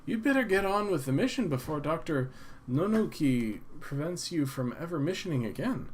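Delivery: clerk voice. Acted. Clerk keeps talking.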